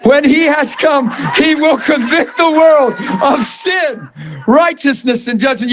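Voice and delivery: preacher proclaiming the verse; emphatic reading. Real, not acted. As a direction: proclaim it with force. Scripture reread with force.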